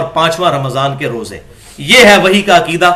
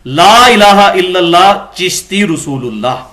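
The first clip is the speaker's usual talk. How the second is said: slow recitation; 3 dB louder, slower than usual. Retold or imitated. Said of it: "اس کلمے کو یوں پڑھ".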